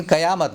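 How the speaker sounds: "कयामत" with plain k; common mispronunciation. Shown as a demonstration. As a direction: say "कयामत" as kayaamat. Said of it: "कयामत ना बोलें".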